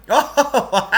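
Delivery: high laughing exclamation. Acted. Lance amused by the boys' question, laughing. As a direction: burst out with a laughing oh.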